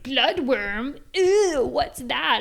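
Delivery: be the grossed-out reader; mock disgust. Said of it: "people would be like".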